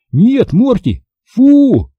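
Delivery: high-pitched scolding cry. A narrator's reading. Boy orders dog off the dough, crying out. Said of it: "закричал я снова".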